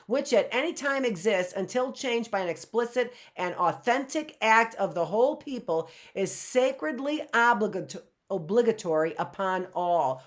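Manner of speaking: stately reading from a historic speech; formal speech reading. Acted. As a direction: read it like a solemn founding text. Reads address excerpt.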